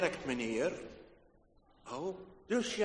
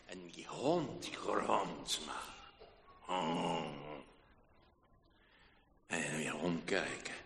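hushed suspense; 13 semitones lower, 6 dB quieter, slower than usual. A narrator's reading. Dog growls, tense moment.

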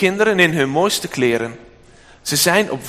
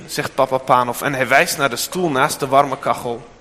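ordinary delivery

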